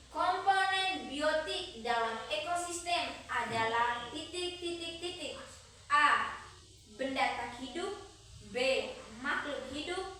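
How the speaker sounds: dictating. Acted. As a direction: read it out for the class to write. Repeats quiz question aloud.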